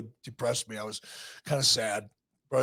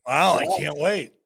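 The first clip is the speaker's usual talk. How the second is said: excited; 2 semitones higher, 7 dB louder than usual. Real, not acted. Host reacts to the promised music.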